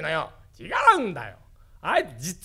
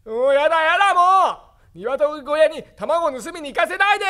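put-on childish whine; 8 semitones higher, 6 dB louder than usual. Grandpa whining like a child.

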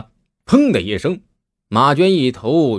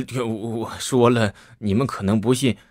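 wry laugh. Acted. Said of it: "赵大同苦笑道".

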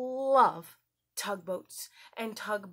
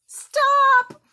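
sudden loud high stop; shouted stop; 17 dB louder than usual. Shown as a demonstration. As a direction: bark it like a traffic command. Acting out the red light.

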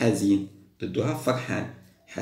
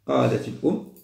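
ordinary talk

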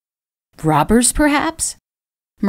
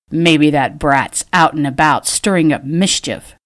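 growling; 2 semitones lower than usual. Acted. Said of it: "Edgar Holt growled".

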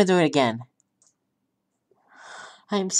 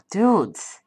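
whisper. Real, not acted. Overwhelmed sigh to viewers.

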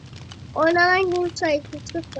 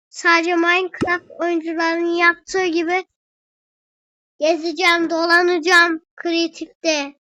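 slow, stretched put-on delivery; odd drawn-out voice; 3 dB louder than usual. Explaining his Minecraft plan in a slow put-on voice. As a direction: drag the words out oddly. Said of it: "Ben niye böyle konuşuyorum lan?".

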